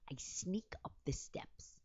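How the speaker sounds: slow, hushed sneaking voice; stealthy whisper. Acted. Telling viewers how she slipped past, stealthy whisper. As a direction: creep through the words in a whisper.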